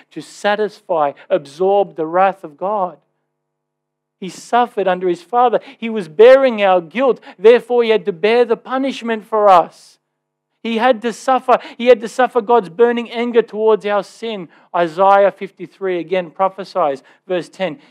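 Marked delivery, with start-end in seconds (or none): 4.2-14.5 rising fervent preaching. Real, not acted. Preaching at full force.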